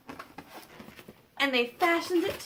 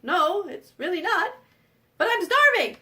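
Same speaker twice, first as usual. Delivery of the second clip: starving troll; 3 semitones higher, 5 dB louder than usual. Acted. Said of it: "the troll's like".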